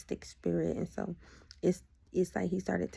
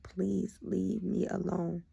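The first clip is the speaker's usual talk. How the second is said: drawn-out, deliberate request; slow plea; much slower than usual. Retold or imitated. Woman asking her ex to stop texting, slow plea. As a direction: stretch out the plea word by word. Retells pleading with ex by text.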